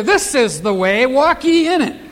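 lightly voiced firm parent, rising on ye; firm parent guidance. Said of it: "march them over there and say".

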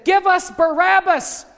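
high, loud and slow mob cry; crowd shouting. Retold or imitated. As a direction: shout it out, drawing out each word. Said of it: "That crowd was crying out".

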